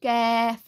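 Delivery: कैफ़ thin and light, k from the tongue root; कैफ़: light k, thin vowel; Arabic kaf. Shown as a demonstration. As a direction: say कैफ़ light, not heavy. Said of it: "इसको बारीक पढ़ेंगे".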